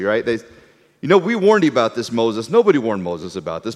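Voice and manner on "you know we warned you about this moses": mock know-it-all. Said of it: "revisionist history".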